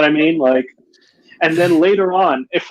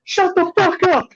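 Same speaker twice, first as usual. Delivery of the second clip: high-pitched imitation of angry neighbors yelling; mock a heckler's drawn-out holler; strained, high mock shout; slower than usual. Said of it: "like, yelling at him".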